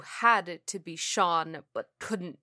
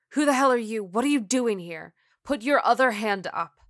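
loud, raised-pitch cop's challenge; demanding; 3 semitones higher, 7 dB louder than usual. Acted. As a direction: order a suspect at gunpoint. Cop challenging stranger at gunpoint.

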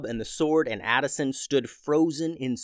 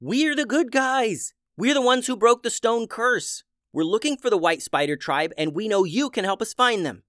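yelling; 10 semitones higher, 4 dB louder than usual. A narrator's reading. Unica yelling at the Minotaur's face, high loud plea. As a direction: shout it right in his face. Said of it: "yelled Unica".

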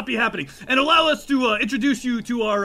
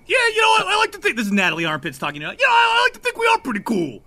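orc Natalie, high voice; 7 semitones higher, faster than usual. Acted.

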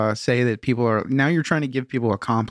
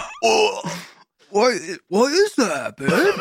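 mock concerned partner; 10 semitones higher, much slower than usual. Acting partner reply.

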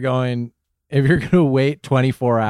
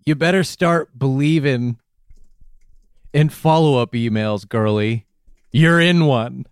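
mock movie tagline.

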